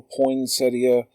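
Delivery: poinsettia in four syllables, poyn-SET-ee-uh; poinsettia pronounced "poyn-SET-ee-uh". Shown as a demonstration. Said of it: "However you pronounce it".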